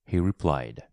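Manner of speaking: ordinary delivery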